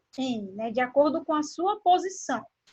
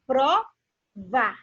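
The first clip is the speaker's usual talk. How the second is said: provar in two separate syllables, stress on var; stress on last syllable. Shown as a demonstration. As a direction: split provar and lean on the final var. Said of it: "dessa sílaba mais forte".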